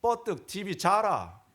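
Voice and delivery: mock-gruff Gyeongsang husband barking at his wife. Pastor mimics a blunt Gyeongsang husband dismissing his wife, in Gyeongsang dialect. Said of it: "경상도 남자가요".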